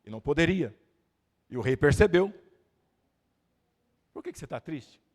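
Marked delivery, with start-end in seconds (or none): 4.1-5.0 the king's question asked softly and low-key; soft first reading. Acted. Preacher quietly voicing the king's question to the church, soft. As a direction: ask it gently, almost to yourself. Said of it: "Eu vou falar de novo".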